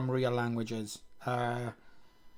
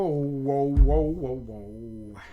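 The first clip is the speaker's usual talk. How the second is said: surprised whoa; 5 dB louder, much slower than usual. Real, not acted. Surprised at error.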